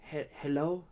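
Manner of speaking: a small creature nudging a sleeper, then panicking; kobold waking a sleeper. Acted. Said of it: "and it whispers to you".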